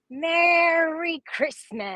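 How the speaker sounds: high, slow, drawn-out cheer; festive greeting. Real, not acted. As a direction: stretch out a merry holiday hello. Drawn-out holiday greeting to viewer.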